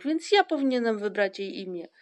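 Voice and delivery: loud, high, eager pleading; insistent bid to be heard; calling out. A narrator's reading. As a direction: push your own idea loudly and high. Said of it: "wołał Ryjek".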